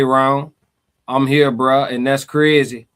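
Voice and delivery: imitating a Ninth Ward accent. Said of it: "I'm trying to do the accent".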